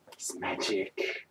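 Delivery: soft, slow hushed voice; awe-struck hush about magic; hushed mystery. Acted. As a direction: breathe out the mystery.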